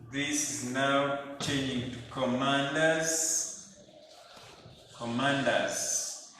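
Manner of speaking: commanders drawn out slowly, like a sung-out drill; slow stress on commanders. Shown as a demonstration. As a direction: stretch Commanders for the class. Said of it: "commander in chief".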